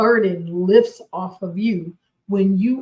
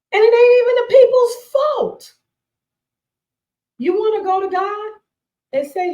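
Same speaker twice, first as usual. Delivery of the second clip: emphatic outburst; 13 semitones higher, 6 dB louder than usual. Real, not acted. Emphatic outburst about resentment.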